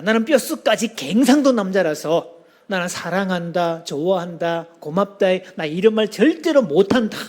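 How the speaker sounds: put-on Gyeongsang accent. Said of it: "경상도와 갱상도는 좀 다릅니다".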